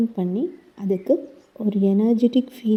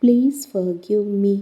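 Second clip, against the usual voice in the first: guided meditation. Acted. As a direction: gently guide the listener through the body, slowing on each thank-you. Leads a guided healing meditation. (மெதுவான, மென்மையான தியான வழிகாட்டும் குரல்)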